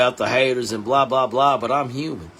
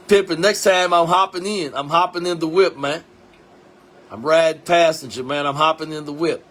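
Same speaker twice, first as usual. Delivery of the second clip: excited call-out; 4 semitones higher, 4 dB louder than usual. Real, not acted. Calling out to a friend.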